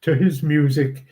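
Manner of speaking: measured reading of verse, phrase by phrase; understated recital of Shakespeare verse; poem recitation. Acted. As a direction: read the poem aloud, pausing at each line end. Reads a second poem.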